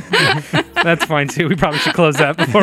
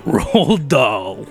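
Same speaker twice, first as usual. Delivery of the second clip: slow, understated spooky delivery; lightly hammed-up scary storyteller; mock-scary description; 3 semitones lower than usual. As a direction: announce it with mock dread. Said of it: "Describe him in a scary way".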